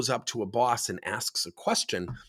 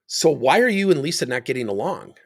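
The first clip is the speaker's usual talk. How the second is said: louder, accusing boss question; confrontational demo; 3 semitones higher, 7 dB louder than usual. Shown as a demonstration. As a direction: challenge the employee, punching the opening. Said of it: "I'll demonstrate for you".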